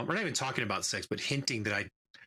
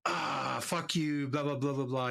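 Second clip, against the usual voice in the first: higher-pitched imitation of annoyed teens; mock annoyed; 4 semitones higher, slower than usual. Teens cursing back at mom's boyfriend, mock annoyed. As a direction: imitate kids getting mildly mad, pitched up. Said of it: "kinda get mad about it".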